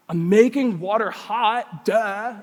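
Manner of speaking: put-on slightly slow, drawn-out teenage sass; mock teen insolence. Teenage son answering dad's question, mildly mocking insolence. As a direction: imitate a cocky teen stating the obvious. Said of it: "That's what I think I sounded like".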